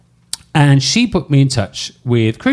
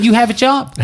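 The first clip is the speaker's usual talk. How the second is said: put-on high, bright-sounding American accent; 10 semitones higher than usual. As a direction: exclaim it in a hammed-up American accent. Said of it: "excuse my American accent".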